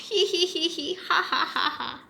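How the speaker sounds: high hee-hee turning into ha-ha; naughty parrot laugh. Acted. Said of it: "He just laughed".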